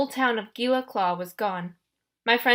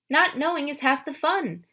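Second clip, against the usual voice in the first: higher, sweetly confiding goddess; Aphrodite voiced; 6 semitones higher than usual. A narrator's reading. Goddess of love coaxing Percy, higher and sweet. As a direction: purr like a doting love goddess.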